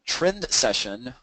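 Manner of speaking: trend drawn out with a rise; slow stressed trend session. Shown as a demonstration. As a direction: say trend session slowly, lifting at the end. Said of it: "or a reversed trend session".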